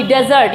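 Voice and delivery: डेजर्ट said as "DEZ-urt"; teacher models डेजर्ट as "DEH-zurt"; word demo. Shown as a demonstration. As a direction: open e in डेजर्ट. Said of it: "अगला word है".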